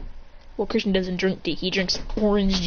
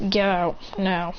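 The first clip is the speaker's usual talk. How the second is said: slow, spaced-out warning; menacing order; 3 semitones lower, much slower than usual. Retold or imitated. Boy threatening a girl with chakra chain, slow and menacing. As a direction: leave a gap before the last word.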